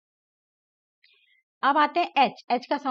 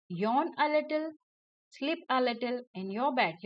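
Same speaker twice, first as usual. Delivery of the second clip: slow poem reading; 3 dB quieter, much slower than usual. Acted. Teacher reading the bedtime rhyme slowly to children. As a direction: rhyme lines said very slowly and softly.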